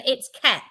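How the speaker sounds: KEP with a short e, as Americans say it; name sounded out as Kep, short vowel; American pronunciation. Shown as a demonstration. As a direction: say Kep to rhyme with step. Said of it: "that's how they pronounce it".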